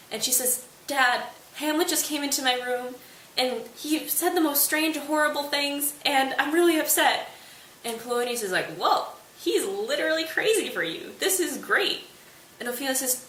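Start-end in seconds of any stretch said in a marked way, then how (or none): 0.9-7.3 higher-pitched imitation of a distressed daughter; scared, upset. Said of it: "she looks really scared". 8.8-12.1 higher-pitched, thrilled dad imitation; mock delight. Father delighted at daughter's distressing news.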